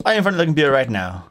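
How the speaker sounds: quick imitation of Indian-accented caller. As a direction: ask fast in a mock Indian accent. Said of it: "he definitely had an Indian accent".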